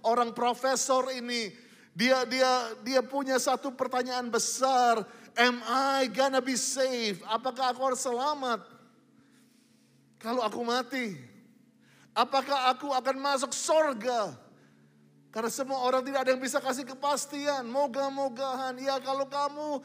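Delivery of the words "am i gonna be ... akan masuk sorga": mock anxious question. Voicing Nicodemus's anxious question.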